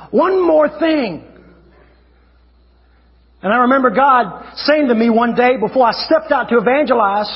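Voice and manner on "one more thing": stretched, slightly higher mock plea; drawn-out plea. Preacher re-enacting his bargaining with God, drawn-out pleading. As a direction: draw out each word, pitch raised.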